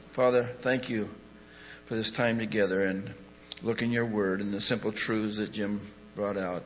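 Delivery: steady earnest prayer voice. Real, not acted. Pastor closing the service with the congregation, earnest prayer. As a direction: pray for the room in calm earnest tones.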